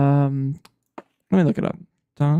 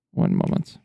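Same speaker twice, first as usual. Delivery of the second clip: whispered aside; quiet at night. Real, not acted. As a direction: whisper it so nobody wakes. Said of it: "I have to be quiet because my wife is asleep".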